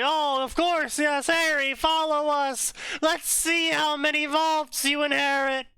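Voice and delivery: high-pitched, obliging goblin voice; eager goblin. Pretend. Goblins lead Harry to his vaults, high eager goblin voice. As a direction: squeak it out like a servile goblin. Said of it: "And the goblins are like".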